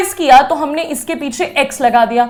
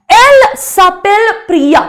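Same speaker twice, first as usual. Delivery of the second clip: slow model sentence; 3 semitones higher, much slower than usual. Shown as a demonstration. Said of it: "teacher models French sentence".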